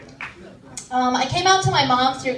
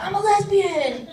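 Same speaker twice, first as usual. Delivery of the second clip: higher, slow, mock-angry declaration; angry yell; 7 semitones higher than usual. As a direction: fake a fed-up outburst. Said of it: "used to get really angry".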